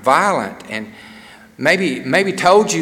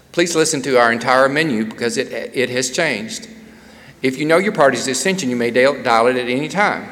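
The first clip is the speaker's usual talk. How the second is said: recorded hold message. Pretend. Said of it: "Can you imagine if it was like this".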